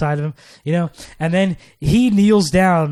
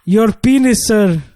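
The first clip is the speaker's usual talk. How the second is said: put-on African accent; 4 semitones higher, 4 dB louder, slower than usual. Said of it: "I couldn't do my African accent".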